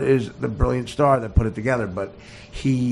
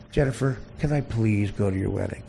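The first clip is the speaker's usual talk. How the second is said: meek begging; 5 semitones lower, 6 dB quieter than usual. Acted. Voices star meekly begging.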